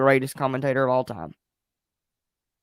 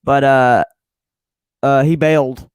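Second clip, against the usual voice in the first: flustered producer; 12 dB louder than usual. Retold or imitated. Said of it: "freaking scramble and go".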